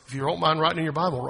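ordinary talk, nothing marked

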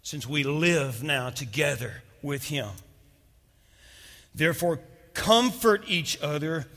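slow, loud, rising scripture reading; preacher reading the verse aloud; scripture read with force. Acted. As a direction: proclaim the verse slowly and powerfully.

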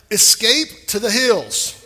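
slow, loud charge; emphatic command. Shown as a demonstration. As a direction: spell it out to the congregation.

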